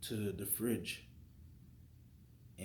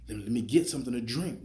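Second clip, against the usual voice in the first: frustrated plea; 4 semitones higher, 10 dB louder than usual. Retold or imitated. Mad at the fridge.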